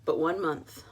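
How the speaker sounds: measured, moody reading of a detective story; noir story narration. Acted. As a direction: read it like a hard-boiled mystery. Reads her noir novel aloud.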